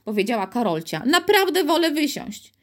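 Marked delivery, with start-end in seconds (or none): 1.1-2.6 put-on scared little girl. Scared girl asks to leave.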